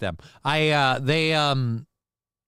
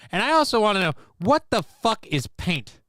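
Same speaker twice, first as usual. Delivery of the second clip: voice crack; 6 semitones higher than usual. Real, not acted. Streamer's voice cracks mid rant, higher. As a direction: voice cracking high while ranting. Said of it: "damn voice crack again".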